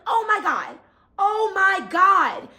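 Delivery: high retold outcry, slowing and swelling; panicked cry. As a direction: re-enact crying out mid-tussle. Acts her repeated cry during robbery.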